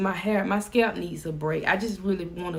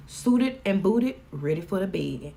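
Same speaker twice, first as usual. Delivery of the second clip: slow savoring; slower than usual. Shown as a demonstration. Showing off her new saying to viewers, slow and savoring. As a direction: draw each word out like a catchphrase. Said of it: "Y'all like how that sound?".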